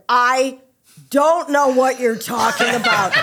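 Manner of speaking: each word spelled out slowly; slow deliberate dismissal. Retold or imitated. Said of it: "she went".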